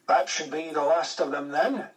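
lightly voiced Scottish brogue; a hint of a Scottish technician. A narrator's reading. RAF technician wrapping up the papers, in a mild Scottish brogue. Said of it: "in his Scottish brogue".

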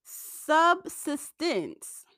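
lisping on the S words; careful lisped S sounds. Real, not acted. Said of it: "excuse my lisp because I'm really trying so hard to pronounce these".

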